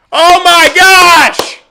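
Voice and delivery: stretched-out high, loud gasp of delight; amazed. Real, not acted. Streamer seeing Caleb in a jersey, stunned and delighted. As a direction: draw it out in awe.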